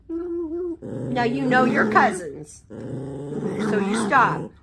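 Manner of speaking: slow, low, stern warning; stern scolding. Real, not acted. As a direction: settle them down firmly. Scolding the cousins.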